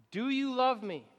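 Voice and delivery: lightly voiced Jesus, searching question. Jesus asking Peter again, lightly voiced. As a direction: ask it as Jesus would. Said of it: "Hear him ask".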